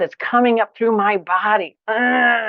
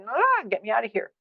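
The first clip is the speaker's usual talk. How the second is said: mock flight panic; 4 semitones higher, 5 dB quieter than usual. Shown as a demonstration. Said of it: "The fight, flight".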